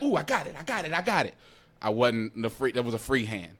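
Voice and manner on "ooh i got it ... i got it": high triumphant; proud kid. Retold or imitated. Kid grabbing the cord, high triumphant. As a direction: crow it like a winner. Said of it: "I'm like".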